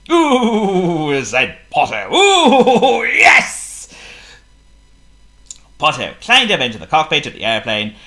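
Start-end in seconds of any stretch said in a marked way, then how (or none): 0.1-1.2 delighted. Acted. Potto delighted. 2.1-3.7 high, loud gleeful ooh; delighted. Acted. Potto delighted.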